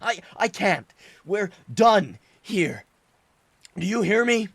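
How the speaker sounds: tears pouring out through the yelling; sobbing outburst. Acted. Son screaming his guilt at his father, sobbing. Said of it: "sobbing the little of what remained".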